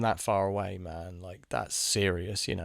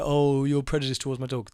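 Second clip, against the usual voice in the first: mock offended owner; 3 semitones higher, 5 dB louder than usual. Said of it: "they pretend like".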